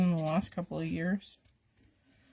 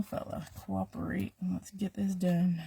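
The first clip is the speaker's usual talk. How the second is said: whispering; 6 dB quieter than usual. Real, not acted. Whispered plea to scissors.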